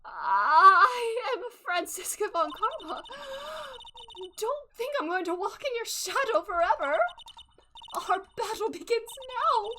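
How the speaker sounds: loud, high tearful declaration; hammed-up crying, loud and defiant; tearful Franziska von Karma. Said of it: "Seeing her cry?".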